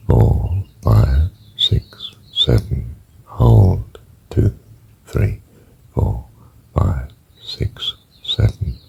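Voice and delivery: guided breath count that fades to a whisper on the holds and out-breaths. Shown as a demonstration. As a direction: count the breath in, hold and out slowly. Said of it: "I'll just do this once with you".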